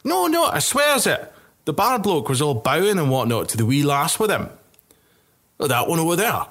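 squeaky high rough soldier voice; a tipsy soldier swearing it's true; insistent drunk soldier. Acted.

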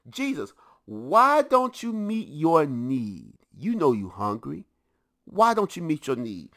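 a hint of a sly tempter; sermon's devil mildly taunting hungry Jesus; tempting devil. Devil tempting Jesus, acted quote.

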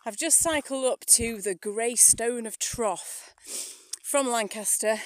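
puffing after a long climb; out of breath. Real, not acted. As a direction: catch your breath between words. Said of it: "a breather".

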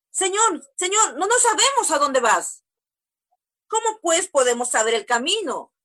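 lightly voiced pleading disciple; voicing Tomás. Preacher voicing Tomás asking the way, lightly puzzled.

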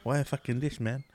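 dad's catchphrase in broken Vietnamese English. Retold or imitated. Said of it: "But he always says that".

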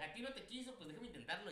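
hammed-up opportunist stepping in; cocky mock offer. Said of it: "y yo".

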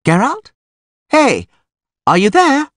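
high, insistent "are you there" call. A narrator's reading. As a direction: call to someone lost in a book. Calling to an absorbed reader.

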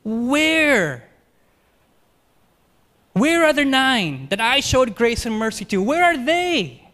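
Jesus demanding where the healed nine went, high and loud; emphatic where. Acted. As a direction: lean hard into each where. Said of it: "It's emphatic".

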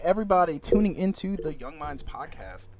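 formal, official radio greeting; radio host voice. Acted. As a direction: play the smooth radio host. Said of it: "You sound like a radio host".

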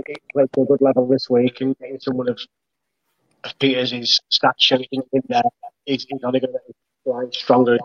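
audio cutting in and out; choppy connection breaking up; glitching audio. Real, not acted. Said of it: "you keep cutting out a little bit there".

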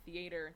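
"Theater" echoed as thee-AY-ter; imitated Southern pronunciation. Friend echoing cohost's word, Southern "Theater" as thee-AY-ter. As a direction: copy the long ay in "Theater". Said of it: "That's, that's, like, Southern, though".

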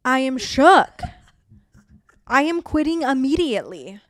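high, loud mock outrage; exaggerated disbelief, half joking; shocked. Real, not acted. Reacting to huge PTO bank.

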